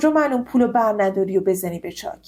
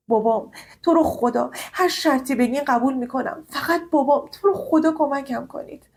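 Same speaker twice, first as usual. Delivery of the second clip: higher, urgent begging; desperate pleading; 4 semitones higher than usual. Acted. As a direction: plead for your father's life. Begging professor for father. (التماس ناامیدانه)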